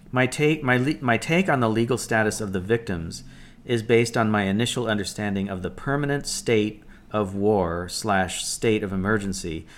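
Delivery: measured, deliberate read-aloud of an article. Acted. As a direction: read the post out carefully, phrase by phrase. Reads paragraph aloud.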